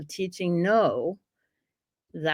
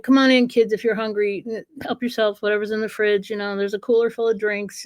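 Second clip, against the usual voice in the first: suburban mom; 3 semitones higher than usual. Retold or imitated. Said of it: "like, a suburban mom".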